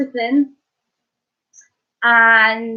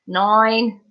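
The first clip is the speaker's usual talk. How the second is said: slightly Australian nine. Real, not acted. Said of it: "sounded a little bit Australian there".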